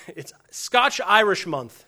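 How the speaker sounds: slow, laughing through the words Scotch-Irish Month; drawn-out chuckle on Scotch-Irish; laughing mock announcement. Preacher imagines a heritage month, laughing slowly. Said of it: "What would happen if I was like".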